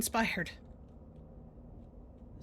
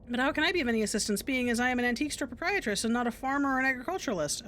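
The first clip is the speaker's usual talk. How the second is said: a hint of a stiff, wordy shopkeeper; formal proprietress; 3 semitones higher than usual. Shopkeeper greeting a customer, lightly voiced and formal. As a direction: recite the shop's pitch in a prim, overformal way.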